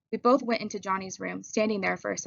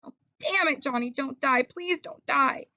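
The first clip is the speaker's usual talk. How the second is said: desperate pleading; 5 semitones higher, slower than usual. Acted. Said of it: "he begged".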